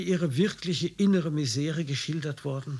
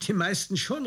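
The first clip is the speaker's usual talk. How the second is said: higher, lively outcry; eager exclamation; 7 semitones higher, 3 dB louder than usual. Acted. The officer exclaims to the writer, eager. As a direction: exclaim it with zeal. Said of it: "rief er aus".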